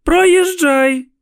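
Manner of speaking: high, loud furious yell at cars; a mother yelling at gawkers to move; shouting mother. A narrator's reading. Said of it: "кричала вона".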